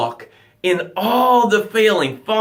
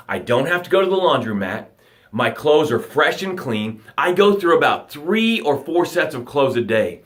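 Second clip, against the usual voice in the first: grateful tone; 3 semitones lower than usual. Shown as a demonstration. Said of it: "this is how it should sound".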